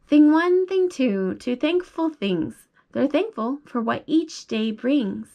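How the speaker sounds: sing-song picture book read, first words lifted; reading to a child. Acted. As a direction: read the rhyme brightly to a toddler.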